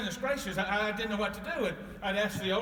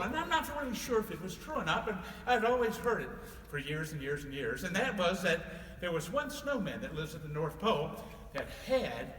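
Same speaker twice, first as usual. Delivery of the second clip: storytelling voice; 2 semitones higher than usual. A narrator's reading. Santa telling children a story, lively. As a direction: spin the tale for the kids.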